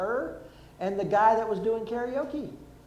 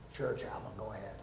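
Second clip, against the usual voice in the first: much lower, much softer reply; patient answering the chaplain; mild patient; 11 semitones lower, 12 dB quieter than usual. Retold or imitated. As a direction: mumble agreement, calmed down.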